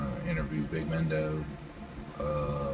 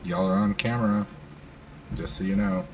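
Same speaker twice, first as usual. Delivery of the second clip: louder call to everyone; 4 semitones higher, 4 dB louder than usual. Real, not acted. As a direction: announce it to the room. Warning the whole room loudly.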